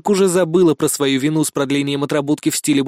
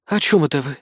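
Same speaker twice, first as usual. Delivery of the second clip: suspicious. Acted. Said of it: "с подозрением спросила Кри".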